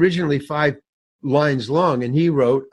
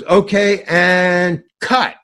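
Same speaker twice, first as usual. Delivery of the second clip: raised, louder set command; director calling out; 3 semitones higher, 5 dB louder, much slower than usual. Retold or imitated. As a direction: call cut to the whole crew. Imitating director calling cut on set.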